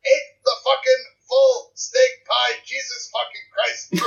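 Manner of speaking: slow, halting, bad Scottish accent; amateur Scottish accent that slips into Canadian; attempted Scottish accent. Shown as a demonstration. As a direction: sound out a Scottish accent word by word. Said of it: "Do you mind if I try a Scottish accent? I'm terrible at it".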